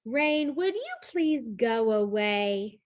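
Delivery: slow polite plea to the rain; slow storybook plea; slow pleading read. Acted. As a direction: ask the rain nicely, slowly. Reading book text.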